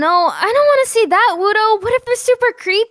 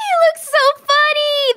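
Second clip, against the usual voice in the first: laughing; 3 semitones higher, slower than usual. Acted. Laughing at the silly turtle.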